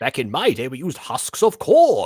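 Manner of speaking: put-on loud, swooping old professor voice. Joking about a Pokemon school, speaking as its professor: Professor Oak impression. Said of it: "This is my Professor Oak impression".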